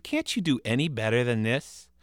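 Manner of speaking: bored. Acted. Bored boy mocks the ghost.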